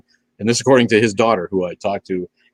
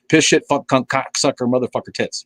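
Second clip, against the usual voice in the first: Carlin impression; 3 semitones higher than usual. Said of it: "do the words ... as Carlin".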